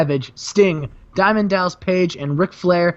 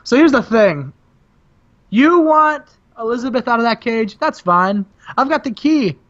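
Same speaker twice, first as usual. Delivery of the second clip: gloating Sting; 3 semitones higher than usual. Retold or imitated. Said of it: "Sting's like".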